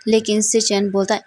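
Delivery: ordinary delivery, nothing marked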